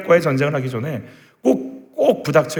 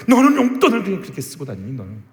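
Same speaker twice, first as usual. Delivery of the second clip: fuming scolding; 3 semitones higher than usual. Acted. Mother fuming after a fight with dad, angry scolding. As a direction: snap at your child over money. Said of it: "씩씩거리고 있는데".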